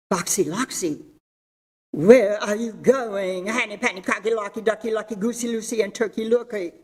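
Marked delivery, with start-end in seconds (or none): 1.9-6.7 sly fox. Acted. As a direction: drag it out like a cunning fox. Fox voiced in fable.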